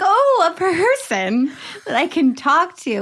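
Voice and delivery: lightly voiced eager old lady. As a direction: play a lonely old lady, delighted. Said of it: "So she's like".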